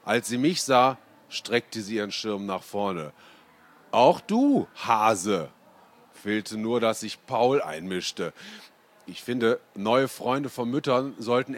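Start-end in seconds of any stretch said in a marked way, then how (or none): 3.9-5.5 lightly voiced granny summoning the boy; Oma Inge calling. A narrator's reading. (leicht gespielte Oma, höher und lauter)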